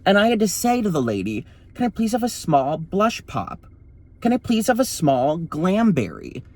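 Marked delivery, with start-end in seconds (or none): 1.7-6.4 put-on drive-thru voice. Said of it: "I gotta put on a voice".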